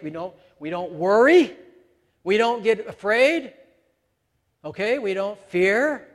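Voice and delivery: rising insistence on worry and afraid; emphatic. Real, not acted. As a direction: preach it with force. Preacher building up emphasis.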